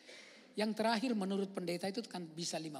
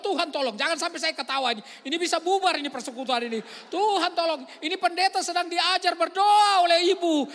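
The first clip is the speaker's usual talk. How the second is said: holding back laughter; 10 semitones higher, 18 dB louder than usual. Retold or imitated. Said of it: "saya mau ketawa".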